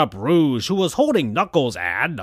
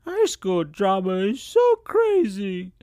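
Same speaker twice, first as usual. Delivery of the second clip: high school drama; 7 semitones higher than usual. Acted. Amy's line.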